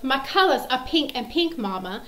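insisting daughter. Retold or imitated. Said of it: "And she goes".

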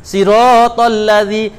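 slow 'siratal ladzi' with a short ra; wrong reading. Shown as a demonstration. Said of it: "bahasa Arab berubah".

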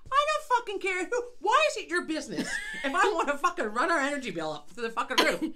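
laughing, indignant rant; exasperated rant. Real, not acted. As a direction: tell him off. Ranting at the contractor.

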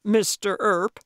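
loud, pleased recognition; delighted cry. A narrator's reading. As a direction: call the name out with pleasure. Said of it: "Calvin cried in delight".

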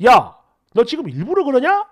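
mildly hammed-up irritation; irritated quote. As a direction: act out someone getting irked. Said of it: "막 짜증내면서".

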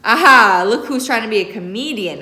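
loud laughing comeback; playful laugh. A narrator's reading. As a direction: laugh off the joke. Uncle laughs at the tease.

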